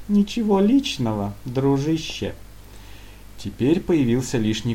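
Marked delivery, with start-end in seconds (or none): 0.1-2.3 high, sneering nothing-personal; sarcastic. Acted. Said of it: "с сарказмом сказал".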